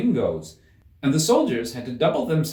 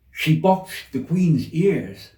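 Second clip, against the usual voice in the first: slow, louder rabbit voice; rabbit gossiping; 6 semitones higher, 5 dB louder, much slower than usual. A narrator's reading. Rabbit tells Alice, slow rabbit voice. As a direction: confide the scandal.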